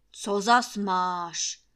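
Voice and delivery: rumble. Acted. Master Trautenberg grumbling at the maid after lunch. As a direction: rumble it lazily like a sated lord. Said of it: "zahučel Trautenberg".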